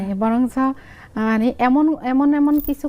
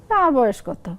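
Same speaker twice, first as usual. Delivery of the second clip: higher-pitched Lakshmipur dialect answer; 3 semitones higher than usual. Shown as a demonstration. Mother telling son her age, in Lakshmipur dialect. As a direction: play the mother in Lakshmipur regional speech. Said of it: "আমি আঞ্চলিক ভাষায় বলি".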